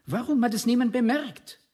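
outraged outcry. Acted. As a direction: cry it out to the whole village. Indignant rhetorical question in speech.

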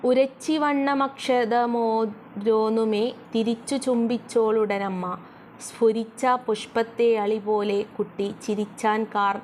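slow, measured reading of the verse; slow lilting poem recital; poem recitation. Shown as a demonstration. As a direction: chant the line slowly like a recited poem. Teacher recites next verse.

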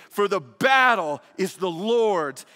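loud, slow cry of the battle is the Lord's; shouted proclamation. Acted. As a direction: proclaim it slowly at full force.

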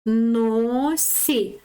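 "На носі" slowly, vowels drawn out; reading by syllables. Shown as a demonstration. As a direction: stretch "На", pause, then "носі". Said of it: "Читаємо далі". (протяжне читання «На носі» по складах)

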